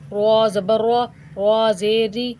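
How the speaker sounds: put-on clear, measured syllable drill for children; teaching drill. Shown as a demonstration. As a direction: sound out each syllable for the class. (بچوں کو ہجے سکھانے کا انداز)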